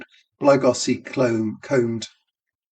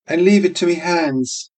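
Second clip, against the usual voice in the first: barmaid voice; 6 semitones higher, 4 dB louder than usual. Acted. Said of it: "she said".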